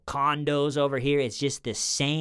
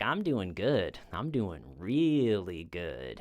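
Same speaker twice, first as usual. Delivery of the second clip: slowing into a drawn-out, lower "really good"; strange, secretly amused; 3 semitones lower, 3 dB quieter, slower than usual. Retold or imitated. Stalker at the bar toying with brother, oddly self-amused. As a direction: savor a private joke, stretching the words out. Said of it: "the strange tone, like he was enjoying some joke".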